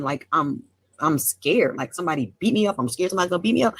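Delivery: real fear trembling through; shaking voice. Real, not acted. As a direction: speak as if someone's coming to hit you. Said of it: "my voice is fucking shaking".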